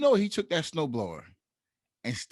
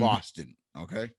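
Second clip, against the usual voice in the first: put-on Boston accent; 6 semitones lower than usual. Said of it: "Terrible accent".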